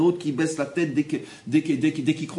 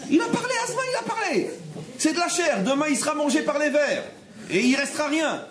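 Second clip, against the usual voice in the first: incredulous exclaiming; 9 semitones higher than usual. Acted. Rabbi exclaims about mere flesh.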